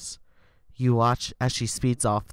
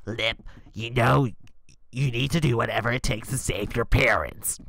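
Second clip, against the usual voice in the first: grandma voice; 3 semitones lower, 3 dB louder than usual. Acted. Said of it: "Grandma says, already tearing up".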